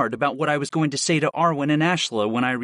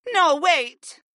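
high, desperate pleading; begging; 13 semitones higher than usual. A narrator's reading. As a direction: plead with him not to go. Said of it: "Mira Lee begged".

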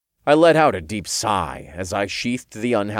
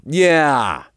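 loud, raised, angry cut-in; erupting; 7 semitones higher, 6 dB louder than usual. A narrator's reading. Hero interrupts the Archangel's excuse, erupting. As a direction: burst in over him. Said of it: "I erupted".

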